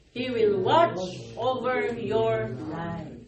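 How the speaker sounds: slow, emphatic psalm reading; scripture reading. Acted. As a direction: read the psalm out slowly to the congregation. Reads the psalm aloud.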